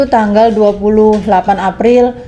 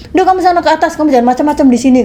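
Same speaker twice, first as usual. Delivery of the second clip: higher, fast imitated command; retold angry order; 5 semitones higher, much faster than usual. Employer sending the maid upstairs, imitated angry and fast. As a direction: rattle off the boss's order to leave.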